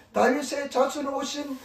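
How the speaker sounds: mild retold cry; imitated calling out. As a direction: call out the title slowly, drawing it out. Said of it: "이렇게 소리 지른 것이었습니다".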